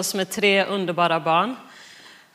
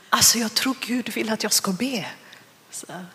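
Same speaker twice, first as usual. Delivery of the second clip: hushed, confiding retold aside; imitated whisper; 4 dB quieter than usual. Wife confiding to husband that God wants prayer, imitated hushed whisper. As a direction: lean in with a lightly stage-whispered confession. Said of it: "varför viskar du".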